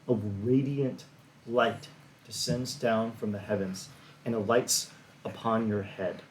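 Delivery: slow, hushed scene setting; story narration. Acted. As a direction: paint the scene slowly. GM describes the scene.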